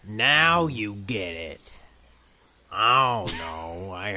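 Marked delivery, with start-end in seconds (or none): 0.1-1.8 djinn voice. Retold or imitated. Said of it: "my djinn are saying".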